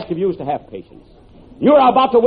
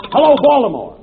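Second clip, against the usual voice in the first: calling out. Acted. Calling into the first telephone.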